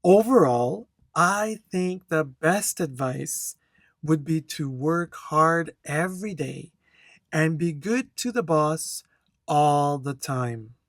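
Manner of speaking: steady, clear exam-answer reading with good flow; teacher demonstrating fluent intonation to the class; model answer read aloud. Shown as a demonstration. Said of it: "I'm gonna read this answer".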